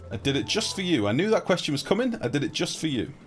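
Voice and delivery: high, loud eager chatter; excited shout-outs. Real, not acted. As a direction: hype up each viewer by name. Excited chat shout-outs to viewers.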